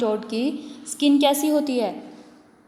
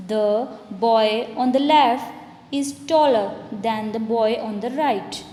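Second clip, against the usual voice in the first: slow example reading; much slower than usual. Shown as a demonstration. Reads example sentence to class.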